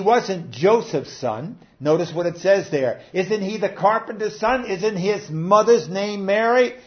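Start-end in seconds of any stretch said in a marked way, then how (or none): 3.1-6.7 derision. Acted. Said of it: "bringing up Mary in derision".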